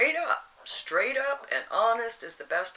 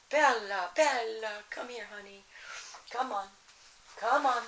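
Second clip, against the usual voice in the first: raised voice calling a pet's name; calling the dog. Real, not acted. Calling her dog Bella to come over, raised voice. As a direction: call her across the room.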